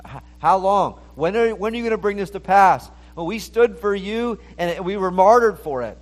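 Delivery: high, loud pleading cry of the martyrs. Retold or imitated. Martyrs under the altar plead with God, high and loud. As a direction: cry it up to heaven, demanding an answer. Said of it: "they're crying out in Revelation six ten".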